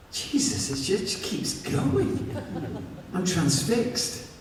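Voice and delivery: breathless whisper, amazed; awed whisper. A narrator's reading. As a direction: whisper it, hushed and transfixed. Aroused narrator whispering in awe.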